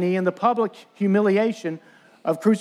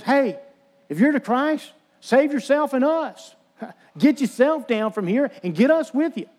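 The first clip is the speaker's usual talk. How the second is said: high, jeering taunt with a laugh, mildly hammed-up; taunting criminal; 5 semitones higher than usual. Dying criminal jeering at Jesus on the cross, high mocking taunt. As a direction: sneer up at him, pitched high and mocking. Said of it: "All this taunting".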